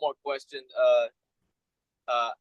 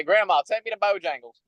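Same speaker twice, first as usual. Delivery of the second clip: higher-pitched Southern accent model; 4 semitones higher, 4 dB louder than usual. Shown as a demonstration. Guest feeding the host a classic phrase, Southern accent. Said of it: "I need, like, a full sentence".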